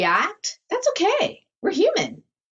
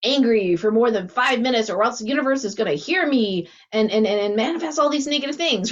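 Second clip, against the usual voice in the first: mock anxious self-talk. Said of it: "you're back in your mind".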